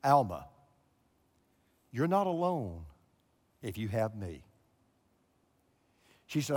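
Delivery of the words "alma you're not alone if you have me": a hint of a hushed heavenly voice; voice of God. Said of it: "these words".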